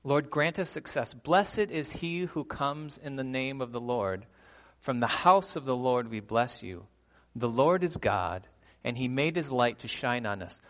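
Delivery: declaimed psalm verses in measured phrases; scripture reading. Acted. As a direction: proclaim the psalm to a congregation. Reads psalm verses aloud.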